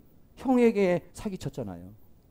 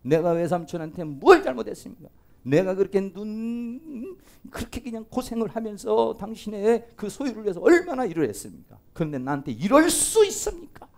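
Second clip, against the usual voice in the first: mildly indignant, pleading complaint; acted angry protest; 3 semitones higher than usual. Jacob protesting to his uncle after years of toil, mild acted anger. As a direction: protest the injustice with contained anger. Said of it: "야곱이 화가 나가지고 외삼촌에 막 소리를 버럭버럭".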